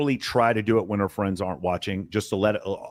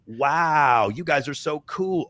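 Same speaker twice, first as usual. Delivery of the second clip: drawn-out, slightly raised mock admiration; vocal fry; 3 semitones higher, much slower than usual. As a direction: mimic fawning praise with vocal fry. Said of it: "Like, vocal fry".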